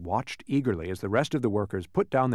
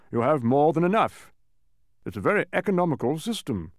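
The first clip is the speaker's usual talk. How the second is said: higher, emphatic character voice; mathematician, impatient; 4 semitones higher, 3 dB louder than usual. Acted. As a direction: lecture the visitors in a pitched-up voice.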